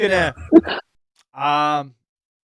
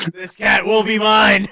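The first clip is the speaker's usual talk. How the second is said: louder, higher hammed-up declaration; mock-dramatic vow; 6 semitones higher, 5 dB louder than usual. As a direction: declare it like an obsessed cat tamer, jokingly. Voicing the rider's vow, laughs after.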